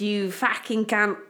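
slow Cockney snarl; drawn-out Cockney insult; Cockney accent. Pretend. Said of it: "I love saying it in a Cockney accent".

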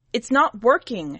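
a high, loud whine; whining, not accusing; whiny complaint. A narrator's reading. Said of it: "more of a whine than an accusation".

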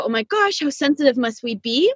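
mildly put-on eye-rolling complaint; mock exasperation. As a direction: act out someone fed up with touchiness. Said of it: "might roll their eyes and go".

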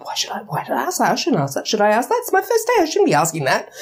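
mock-anxious self-questioning, pitch leaping up; second-guess yourself in comic fluster; fretful internal dialogue. New starter's internal dialogue on his first day, mock fretting. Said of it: "his little internal dialogue".

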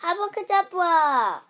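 high, loud magic incantation; spell-casting cry. A narrator's reading. Winnie casts a spell with her wand, called out. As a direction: cast the spell with a big voice.

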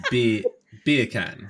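"beer can" in playful Jamaican; Jamaican accent. Shown as a demonstration. Host repeating the party trick, Jamaican accent. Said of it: "that's Jamaican".

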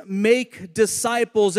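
"make" set apart with emphasis; stress on MAKE. Shown as a demonstration. Preacher naming tonight's first point, emphasis on "make". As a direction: lean on the word "make". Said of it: "I wanna put emphasis on that word make".

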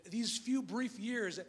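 these few brief years, drawn out and deliberate; slow it right down; slow emphasis. Acted. Preacher contrasting believers' brief years, slowly.

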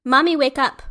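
loud, high mama wake up calls; mock toddler yell. Mom imitating her son yelling her awake, loud and high. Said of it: "yelling in my face".

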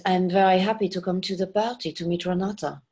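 French accent with softened R's; light French accent. Shown as a demonstration. Coach showing the actress's tempered line, light French accent. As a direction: back off the R's, keep it French. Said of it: "we made it".

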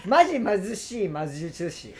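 slowed down, syllables spaced out; slow careful try. Shown as a demonstration. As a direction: take it slow so the tongue twister lands. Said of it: "これもむずいで。".

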